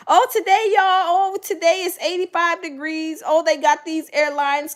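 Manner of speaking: high, bright mock news opener; cheery newscaster. Pretend positive news channel host greeting viewers, cheerfully. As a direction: play a sunny anchor. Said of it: "make a positive news channel".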